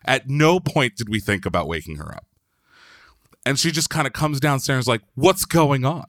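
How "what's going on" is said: a touch higher and louder, puzzled mother of the house; puzzled homeowner. Retold or imitated. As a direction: ask like you just woke to chaos. Woken homeowner comes downstairs.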